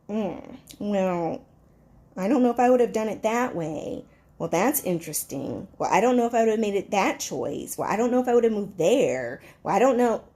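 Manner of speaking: low, grudging, dismissive sniff; snooty doubt. Retold or imitated. Jealous friend judging your big move, sour and dismissive. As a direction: judge their choices with a sour face. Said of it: "stank face".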